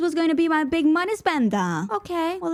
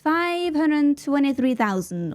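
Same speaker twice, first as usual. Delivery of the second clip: slow reveal; 3 semitones higher, slower than usual. Real, not acted. Big reveal of spent money.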